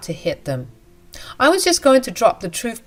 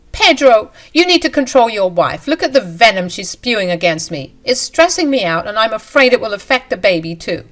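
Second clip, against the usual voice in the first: whiny complaint; 3 semitones higher, 4 dB louder than usual. Acted. Mistress complains to husband.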